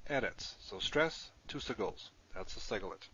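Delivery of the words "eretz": Eretz with the first syllable stressed. Shown as a demonstration. Teacher showing Hebrew students where stress falls, first-syllable stress on Eretz. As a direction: stress the opening E of Eretz, let the rest fall. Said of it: "the stress is here".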